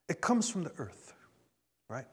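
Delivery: hushed, voiceless aside; a breathless whispered "it comes from the earth"; mock hippie whisper. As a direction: whisper it like a secret the hippies share. Voicing the hippies' claim.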